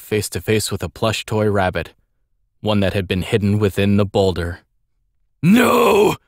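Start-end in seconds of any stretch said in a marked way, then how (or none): 5.4-6.2 sharp high cry of shock; exclaiming. Acted. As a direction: shout it out in alarm. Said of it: "he exclaimed".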